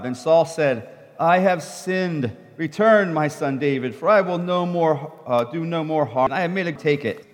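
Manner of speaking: a reader sharing verses in turns; scripture reading. Acted. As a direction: read the passage out to the congregation. Reads scripture passage aloud.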